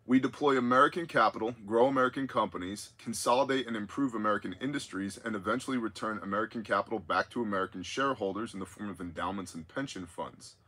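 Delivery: measured read-out of a listener's letter; deliberate on-air reading; reading aloud. Real, not acted. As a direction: read the quoted intel out to the audience.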